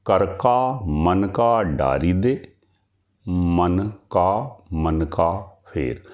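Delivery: slow, measured verse recital; poem recitation. Acted. Teacher recites a couplet to students, slow and measured. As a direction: recite the couplet slowly, savouring each word.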